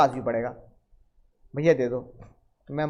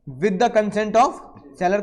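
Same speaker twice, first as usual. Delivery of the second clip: slow dictation; much slower than usual. Shown as a demonstration. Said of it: "dictation pace".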